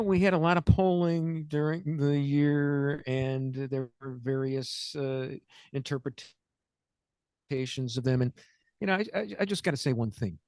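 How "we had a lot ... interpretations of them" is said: slow, much softer, measured and unruffled; imitating calm. Host imitating Jon Stewart calmly discussing polls, slow and soft. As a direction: lightly mimic a composed anchor keeping his cool. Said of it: "very calmly saying".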